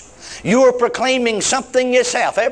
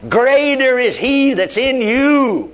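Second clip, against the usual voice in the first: slow, emphatic "Greater" opening the verse; "Greater" driven home, the rest drawn out; stress on Greater; 3 semitones higher, slower than usual. Shown as a demonstration. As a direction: proclaim it slowly, leaning on "Greater". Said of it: "I'm only emphasize that word".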